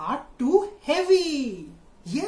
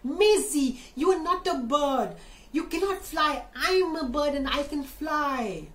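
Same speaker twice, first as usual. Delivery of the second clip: parrot voice; 6 semitones higher than usual. Acted. Parrot corrects Maisie.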